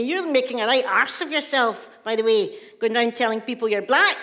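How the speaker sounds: brother's mildly scornful telling-off; retold scolding. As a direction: act out a brother's ticking-off, rising at the end. Brother scolds speaker in retold row.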